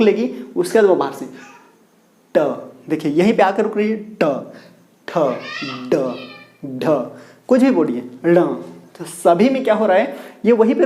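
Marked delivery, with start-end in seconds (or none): 2.3-8.4 ट, ठ, ड, ढ, ण said one by one with the tongue curled back; letter sound demo. Shown as a demonstration. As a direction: retroflex drill, each sound alone. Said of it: "अब बोल के".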